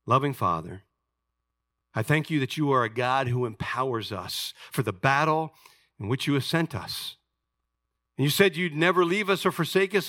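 earnest spoken prayer, starting low and gradually lifting. Real, not acted. Preacher prays to God for empowerment in battle, earnest prayer. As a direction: open low on the address, then build steadily.

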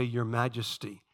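low, slow imitation of a deep voice. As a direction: slowly intone it like his deep-voiced prayer. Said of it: "with his deep voice is powerful".

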